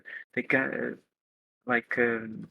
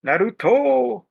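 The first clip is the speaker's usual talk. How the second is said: excited call; 7 semitones higher, 4 dB louder, slower than usual. Acted. Shouting an anime name.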